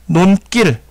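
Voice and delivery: 논길 said as 논낄, with tense ㄲ; slow, careful 논길 with a tense second consonant; tensed pronunciation. Shown as a demonstration. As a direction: harden the ㄱ of 논길 into ㄲ. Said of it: "여기를 된소리로 발음을 한다".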